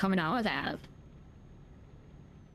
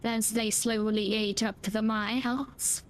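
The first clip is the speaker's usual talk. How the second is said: slow, ominous movie-trailer telling; dramatic narration; slower than usual. Acted. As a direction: build suspense like a thriller voice-over. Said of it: "I'm a dramatic actor".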